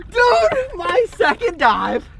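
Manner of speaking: high, thrilled talk; excited. Real, not acted. Diver bragging to camera, excited. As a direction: still buzzing with joy. Still ecstatic.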